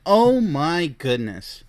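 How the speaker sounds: slow, drawn-out dismay; appalled disbelief. Real, not acted. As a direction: stretch the words out, aghast. Appalled at what he just read.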